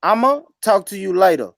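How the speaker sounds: Southern drawl. Shown as a demonstration. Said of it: "welcome to the South".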